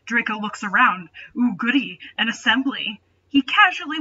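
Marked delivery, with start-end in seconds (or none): none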